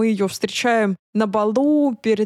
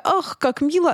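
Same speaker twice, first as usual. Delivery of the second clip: sarcastic gushing, pitched up; mock touched; 6 semitones higher than usual. Host mocking the sappy cartoon ending, sarcastic coo. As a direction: coo it with fake tenderness. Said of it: "И ты такая".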